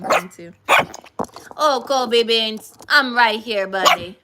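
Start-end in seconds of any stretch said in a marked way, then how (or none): 1.6-4.2 calling the dog. Real, not acted. Scolding a jealous dog.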